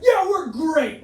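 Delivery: slow, loud, laughing fake reassurance; hammed-up innocent answer through laughter; mock innocent reply. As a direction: pretend all is fine after a fistfight. Coaches answering mid-fight.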